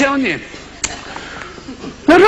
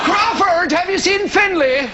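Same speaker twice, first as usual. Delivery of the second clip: higher mock dance-organiser voice; surname clan member; 5 semitones higher than usual. One surname type hails another, mock chummy call.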